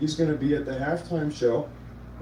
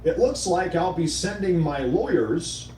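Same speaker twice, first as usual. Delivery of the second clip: reading Trump's post; 3 semitones higher, slower than usual. Retold or imitated. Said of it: "and I quote".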